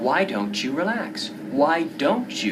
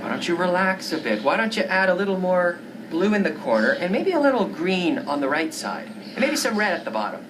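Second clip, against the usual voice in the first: meddling friend. Acted. Friend meddles with the painting's colors. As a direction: butt in on her painting.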